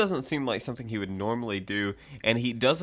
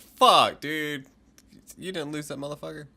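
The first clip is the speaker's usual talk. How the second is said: exasperated outburst; 3 semitones higher than usual. Retold or imitated. Viewer recalling his reaction to the show, exasperated. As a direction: blurt the swear out, exasperated.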